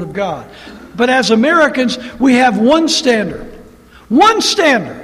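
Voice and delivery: rising, insistent sermon voice; forceful preaching. Acted. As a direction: drive each point home from the pulpit.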